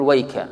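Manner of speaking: "ويك" said as wayka, then halted; stop after the kaf. Shown as a demonstration. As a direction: break off "ويك" right after the k syllable. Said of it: "ومنهم من يقول".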